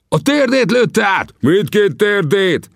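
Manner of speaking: excited crowd. Acted. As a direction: call it out in awe.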